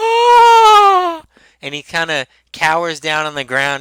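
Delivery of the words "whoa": shrill, very high, loud, stretched-out amazed whoa. Voicing an amazed character who cowers in awe: awed exclamation. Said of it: "and he's like".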